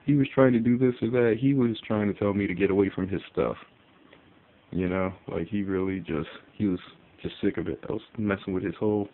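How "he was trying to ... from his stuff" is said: mocking experts. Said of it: "chameleon experts are like".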